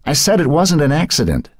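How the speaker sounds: put-on high, piping old woman's voice; a frail grandmother insisting, piped high. A narrator's reading. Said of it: "Emily piped".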